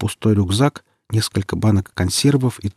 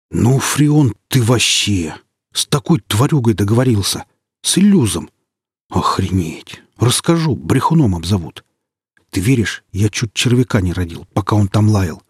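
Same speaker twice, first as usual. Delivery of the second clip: excited stalker. Acted. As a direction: gush with shaken relief. Comrade's excited relieved outburst.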